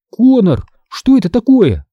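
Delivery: put-on girl insisting Konor answer; insistent. A narrator's reading. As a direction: press him for an answer. Emily insisting.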